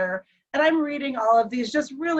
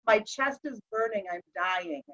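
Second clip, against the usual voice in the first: weak distress; 6 dB quieter than usual. Retold or imitated. Husband retold in distress.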